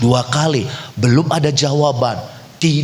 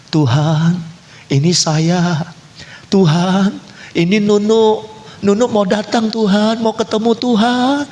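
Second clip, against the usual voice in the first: higher pleading call at a door; like calling through a closed door; calling out to God; 8 semitones higher than usual. Acted. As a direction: call out insistently, pitch climbing. Acting out knocking at God's door.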